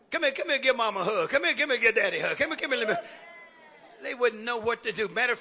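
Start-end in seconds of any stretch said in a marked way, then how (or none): 0.1-3.1 quick, affectionate-parent imitation; rapid run of coaxing calls. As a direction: lightly act a parent calling a child for a hug. Voicing parent coaxing a child.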